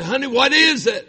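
high, loud cry to his wife; impassioned retold plea; urgent husband's question. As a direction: call out urgently, pitch leaping up. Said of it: "and I said".

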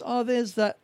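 soft, lightly acted calm; mild, quiet realisation; calm noticing. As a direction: notice it gently, without alarm. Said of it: "just be calm and notice".

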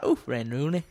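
playful Scouse accent; name a footballer in put-on Scouse; Liverpool accent. Shown as a demonstration. Obliging the cohost with another name, Liverpool accent. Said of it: "give us some more Liverpool accent".

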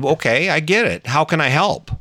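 retold husband offering help, gently and evenly; calm kind offer. Husband calmly offers angry wife help. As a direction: soothe her instead of fighting back. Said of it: "I showered her with kindness".

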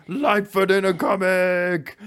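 high, drawn-out mock celebration; mock excited cheer. Mimics excited fan celebrating with backflips.

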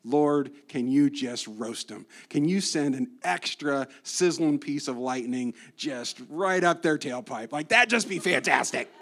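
lightly voiced sarcastic prayer; mock vengeful prayer. Pastor mocks angry David-style prayers, lightly played. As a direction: pray for fire with cheeky relish. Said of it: "start out David style".

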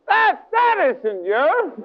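slow, high-pitched outcry; acted high, drawn-out denial; emphatic rejection. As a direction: cry out in realization, very slowly. Man rejecting the evil voice.

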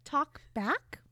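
a high haughty villainess sneer; snooty witch voice. Acted. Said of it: "Missus Black is like".

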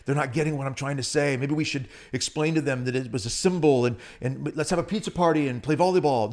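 fast, mock self-pitying; a sarcastic parody of weakness; mock whiny Jesus. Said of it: "He doesn't say".

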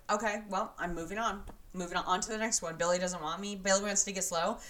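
a hint of a dismissive reality star; Kelly impression. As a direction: imitate someone breezily moving on. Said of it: "that was a good impression".

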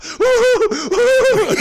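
loud, very high laughing whoops; giddy high whoop of delight. Retold or imitated. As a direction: cheer like a kid seeing the sign. Retold whooping at Disneyland sign.

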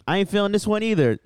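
high mock DJ dismissal; a radio DJ. Co-host retells DJ rejecting caller's song, mock dismissal. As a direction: imitate a DJ turning down a request. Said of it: "he's like".

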